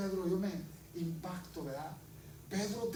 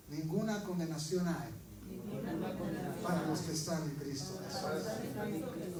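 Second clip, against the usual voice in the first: preacher leading a repeat; 4 semitones lower than usual. Shown as a demonstration. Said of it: "Di conmigo".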